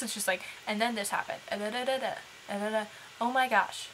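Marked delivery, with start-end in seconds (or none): 0.7-2.8 emotionless computer voice. Retold or imitated. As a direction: read it with no emotion, like a text-to-speech voice. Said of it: "no emotion or tone of voice".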